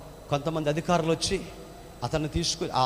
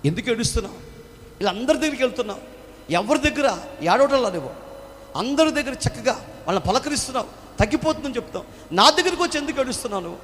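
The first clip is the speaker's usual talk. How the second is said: higher, louder, urgent questioning; wounded soldier pleading; 9 semitones higher, 6 dB louder than usual. Acted. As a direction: demand to know why she weeps. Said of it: "ఆయన అంటాడు".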